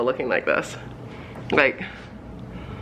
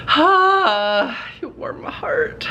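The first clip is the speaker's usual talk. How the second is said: moved whisper; 11 semitones higher, much slower than usual. Real, not acted. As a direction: let emotion steal the voice. Moved by readers ordering book.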